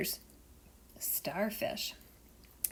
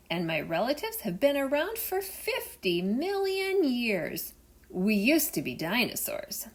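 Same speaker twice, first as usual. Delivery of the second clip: big proud boasting whale, a bit louder; whale bragging; 4 semitones higher, 6 dB louder than usual. Acted. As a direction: boast like the biggest animal in the sea.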